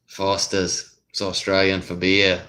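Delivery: lightly imitated Australian ad slogan; Australian commercial accent. Recalling a Foster's beer commercial slogan, Australian accent. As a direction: drop the final R's like an Australian pitchman. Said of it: "the only Australian kind of commercials".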